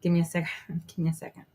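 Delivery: talking around a cigarette; lighting a cigarette while talking; cigarette in mouth. Real, not acted. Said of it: "let me light a cigarette".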